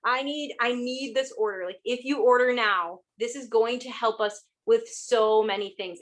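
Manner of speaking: a bit pleading to her contacts; urgent pleading. Shown as a demonstration. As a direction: plead like you need this order now. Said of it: "pretty much probably talking like this".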